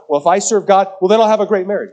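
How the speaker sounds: mock the people who bargain with God; mock naive believer.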